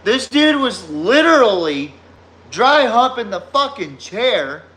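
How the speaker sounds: cracking up while telling it, voice climbing high; laughing disbelief. Real, not acted. Friend tells the chair dance story, high and laughing.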